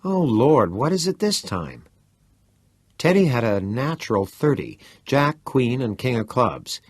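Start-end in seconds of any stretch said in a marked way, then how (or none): 0.0-1.8 exasperated. Retold or imitated. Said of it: "as if to say".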